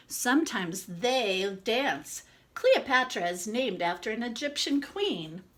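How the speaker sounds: lively storybook read-aloud; reading to children. Acted. Reads picture book to children.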